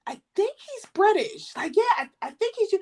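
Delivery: high-pitched, unsure imitation of a friend; mimicking a puzzled friend's tentative answer; retold uncertainty. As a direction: pitch it way up, hesitant.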